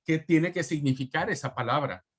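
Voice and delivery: ordinary talk, nothing marked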